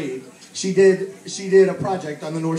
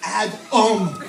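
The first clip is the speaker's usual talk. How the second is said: a slightly louder, teasing Adam; cheeky name-calling; 4 dB louder than usual. Retold or imitated. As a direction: tease him with his first name. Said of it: "like that".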